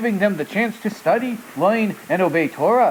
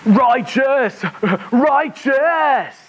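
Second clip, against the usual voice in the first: shouted high and loud with excitement; excited cheer; 7 semitones higher, 4 dB louder, much slower than usual. Acted. Puppet cheering the show's word in a loud high cheer.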